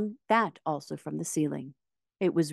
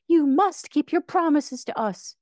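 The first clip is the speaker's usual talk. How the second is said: higher, louder insistence; exclaimed; 11 semitones higher, 6 dB louder than usual. A narrator's reading. Dorothy insisting Oz keep his promises, exclaimed. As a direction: press the demand hard. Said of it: "exclaimed Dorothy".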